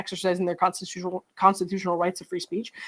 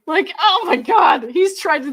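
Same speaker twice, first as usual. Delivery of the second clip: slow, drawn-out disbelief; exasperated outburst; 7 semitones higher, 5 dB louder, slower than usual. Real, not acted. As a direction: stretch it out in outrage. Outraged reaction to filing.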